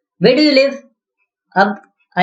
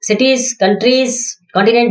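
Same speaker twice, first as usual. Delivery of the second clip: very slow listing; much slower than usual. Shown as a demonstration. List drawn out.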